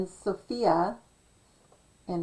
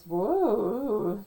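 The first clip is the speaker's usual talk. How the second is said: DJ "whoa". Retold or imitated. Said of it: "he sounds like he's".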